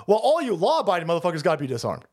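fast, whiny mock sob; hammed-up fake crying to mock them; mock crying leftist. Ranting about leftists, mocking them with a fake cry. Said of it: "and they say".

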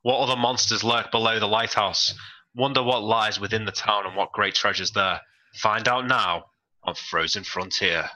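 mild put-on British accent, teaser style. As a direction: close the recap like a TV teaser in a light British accent. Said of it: "that's a pretty solid British accent".

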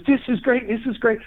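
high, delighted imitation of the old man; excited old man. Man at the gas station thrilled his knee is healed, high and excited.

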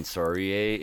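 "sorry" as "sore-y", Canadian style; stereotyped Canadian apology; Canadian accent. Shown as a demonstration. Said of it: "It's different than the Canadian".

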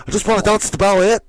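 high, fast Scottish-voiced quote; Scottish accent. Friend's Billy Elliot impression, fast high Scottish accent. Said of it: "Scottish accent".

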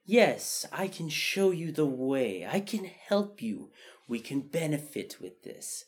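slow, high, smooth-talking racketeer; swindler voice. Acted. Speaker imitating the fox offering help, slow swindler voice. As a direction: draw it out like a con man making his pitch. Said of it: "almost swindler voice or racketeer voice".

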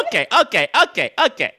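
high laughing okays. Real, not acted. Laughing fit at the remark.

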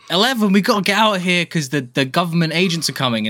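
put-on urgent kid voice. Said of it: "One of the little kids is like".

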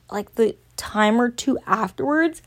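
talking through a big yawn; words stretched by a yawn. Real, not acted. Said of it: "Sorry, I just yawned real solidly".

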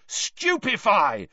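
slow, high yelled spell. Acted. Harry yelling at fleeing Crumb, slow high yell. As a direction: hurl it at his back. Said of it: "Harry yelled".

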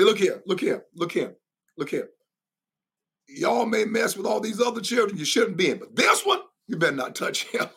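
lightly voiced stern parent warning; a hint of a protective parent grabbing the kids; rough parent. Parent warning country bullies to leave the child alone. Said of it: "rough parent".

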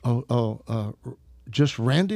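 imitating a flustered, hesitant caller asking; halting question with stammered starts and a rising end; embarrassed, awkward. Flustered TV network caller checks the name he wants, awkward questioning. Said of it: "so much fun with her embarrassment, awkwardness".

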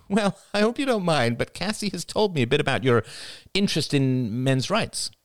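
high, tentative, polite opener; sister-in-law on the phone. Acted. Rachel broaching men's rights with her brother-in-law, tentative. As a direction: ease carefully into a favour.

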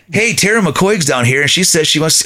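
the friend dangling the bait; teasing buddy imitation. Buddy announces Tara is there.

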